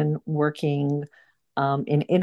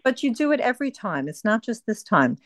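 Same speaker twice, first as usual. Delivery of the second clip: raised, tense telling-off; higher-pitched reprimand to the group; real scolding; 3 semitones higher than usual. Real, not acted. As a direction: firmly put a late member in her place. Host scolds a disruptive member.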